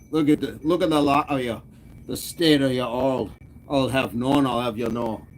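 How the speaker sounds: put-on playful pirate-like accent; mock telling-off in a made-up pirate-like accent. Streamer teasing the whole chat, pirate-like accent. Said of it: "I do that voice for Aoife".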